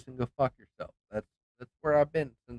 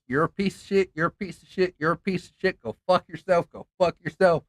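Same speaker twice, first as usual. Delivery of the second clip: repeated angry insults; 5 semitones higher than usual. Retold or imitated. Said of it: "I'm like".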